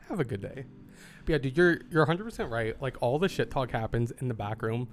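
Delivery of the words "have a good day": "Have a good day" sighed out softer; sighed farewell. Pretend. Clerk jokingly sighing goodbye to a customer, softer and resigned. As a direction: let "Have a good day" fall out on a sigh. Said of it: "You're breathtaking".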